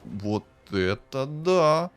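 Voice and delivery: loud, high "ooh" into slow emphatic relish; thrilled approval. Real, not acted. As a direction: hail the lucky find, stretching the key words. Thrilled by the item offered.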